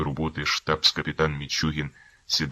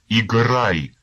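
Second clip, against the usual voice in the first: sharp loud order, higher; shouted command; 7 semitones higher, 9 dB louder than usual. Acted. Officer shouting at the harmonist to play, loud command.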